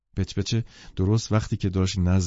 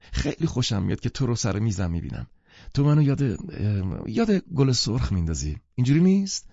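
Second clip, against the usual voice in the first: gushing, higher, slowing on the pause; ardent singsong; 4 semitones higher than usual. Acted. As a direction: pour it out like a lilting compliment. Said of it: "با صدایی پر حرارت و آواز مانند". (با شور و لحنی آوازگونه)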